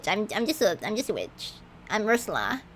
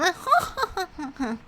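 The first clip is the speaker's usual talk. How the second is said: witchy cackle attempt; 7 semitones higher, 3 dB quieter than usual. Shown as a demonstration. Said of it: "villainous kind of laugh".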